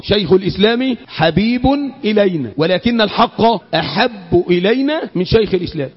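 measured teaching recitation, low ending; repetition for memorising. Shown as a demonstration. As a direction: restate the saying evenly so listeners memorise it. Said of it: "أعيدها تاني عشان تحفظ".

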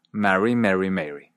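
"Marry, Mary, Mary" as marry, merry, mairy; three distinct vowels. Shown as a demonstration. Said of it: "se mantienen distintas".

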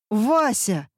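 alarmed shout of a name; panicked yell. A narrator's reading. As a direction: call out in panic. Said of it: "в панике заорал муж". (испуганный окрик)

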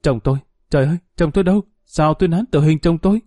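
a touch of alarm as she cries out for him; panicked cry. Acted. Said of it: "Chị ta hốt hoảng kêu lên".

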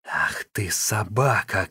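plain reading voice

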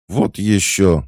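high, loud indignant squeal; shrieked refusal. A narrator's reading. Girl rejects being claimed as his sweetheart, shrieking. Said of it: "взвизгнула стеклоглазка".

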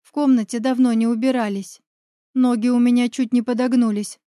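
plain reading voice

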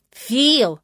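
indignant reproach shouted out; indignant cry. A narrator's reading. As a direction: call him out, scandalized. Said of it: "разом возмущённо воскликнули".

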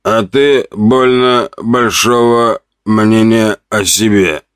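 slow, hoarse sneer; hoarse mocking. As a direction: rasp it with a mocking chuckle. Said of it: "раздался хриплый смешок".

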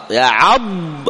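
extremely slow يعض, ending on a clear ض; isolated ض. Shown as a demonstration. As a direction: hold the ض of يعض. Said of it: "هذا الضاد".

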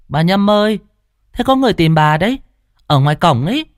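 high calling voice across the yard. Acted. Nga calls Bà Nhâm from the gate, high call. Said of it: "nghe tiếng con Nga gọi".

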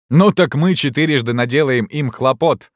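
high, rallying shout; Jean Frollo. A narrator's reading. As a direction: rouse the other students to mischief. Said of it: "вскричал Жан Фроло".

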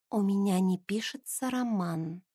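a quiet, urgent cry kept down so no one hears; hushed exclamation. Acted. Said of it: "шёпотом воскликнула Алия". (тихое восклицание шёпотом)

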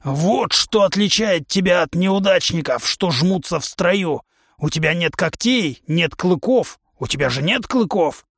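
a brash trainer lecturing his recruit; a touch of a boastful warrior coach; hint of a gruff trainer. Trainer humanoid voiced.

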